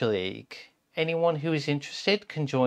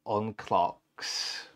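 slow repeat; 3 semitones lower, much slower than usual. Acted. Slowly repeats the rhyme.

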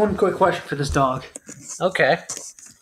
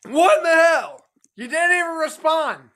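angry shout; 8 semitones higher than usual. Acted. Shouting at the doll.

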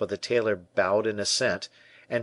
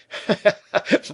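high, loud burst of laughter; acted laugh; 13 semitones higher, 6 dB louder than usual. A narrator's reading. D'Artagnan amused by Porthos's outburst, laughing loudly. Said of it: "D'Artagnan laughed".

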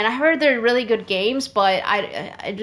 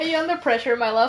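put-on British accent; faster than usual. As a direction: tease lovingly in a put-on British voice. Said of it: "to do a British accent".

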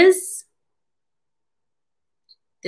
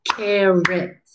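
"Carrot" in two separate, even beats; syllable by syllable. Shown as a demonstration. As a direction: beat out "Carrot" for counting claps. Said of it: "How many times did we clap?".

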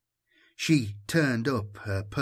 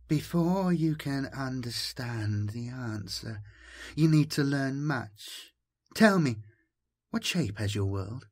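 caressing voice; 3 semitones higher than usual. Acted. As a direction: coax him gently, almost cooing. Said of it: "Was the languid voice male".

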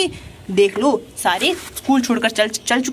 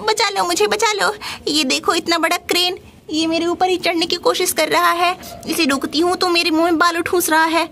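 higher, frightened cry for help; a lightly voiced panicked bird; pleading bird voice; 4 semitones higher than usual. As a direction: bird begging to be saved, higher pitch. Angry Bird begs for rescue.

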